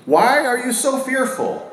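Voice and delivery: "Why" lifted high, a gently probing question; pointed question. Acted. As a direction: ask it like a searching rebuke. Repeating Jesus' question.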